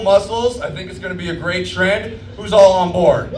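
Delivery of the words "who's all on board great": rally the crowd, loud and high; rallying shout. Real, not acted. Comic closing his set, shouting to rally the crowd. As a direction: call out loud to the whole room. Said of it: "rallying the crowd".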